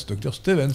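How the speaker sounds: "Stevens" as Stè-vens; "Stevens" with an open first vowel; Flemish-origin pronunciation. Shown as a demonstration. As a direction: say "Stevens" with è, not ee. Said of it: "un nom d'origine flamande".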